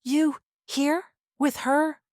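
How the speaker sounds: high, tearful questions; tearful disbelief. Acted. Wife confronting husband and his lover, tearful. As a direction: ask through spilling tears. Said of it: "I let tears spill hot and fast".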